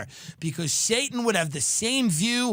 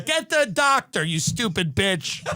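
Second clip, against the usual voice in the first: higher, louder at first, then slow; mock barked order; 3 semitones higher, 3 dB louder, slower than usual. To a nurse at the doctor's office, mock rude demand. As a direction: bark it at the nurse with fake contempt. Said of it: "I'd say".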